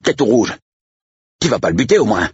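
very high-pitched, anxious check; fretting sidekick, pitch way up; worried Manier. A narrator's reading. Sidekick fears his friend will shoot, worried. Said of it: "s'inquiéta Manier".

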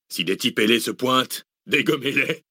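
jeering order, rising at the end; laughing mockery. A narrator's reading. Mercenary chief jokes with his men about angels, mocking. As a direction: joke it out to the gang. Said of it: "Des rires accompagnèrent celui de Zeytin".

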